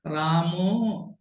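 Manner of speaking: रामो with the final vowel drawn out very long and slow; stretched final vowel. Shown as a demonstration. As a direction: drag the ending of रामो to show its vowel. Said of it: "बाजू में ज्यादा लंबा खींचना".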